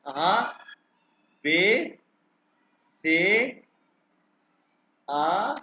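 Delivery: each letter said alone, drawn out; German alphabet drill. Shown as a demonstration. Teacher to students for repeating, German alphabet drill. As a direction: sound out German letters one by one. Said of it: "अब मैं आप pronounce करूंगा".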